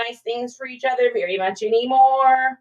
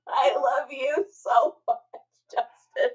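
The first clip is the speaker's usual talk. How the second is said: tearful whisper; slower than usual. Real, not acted. Thanking viewer, tearful whisper.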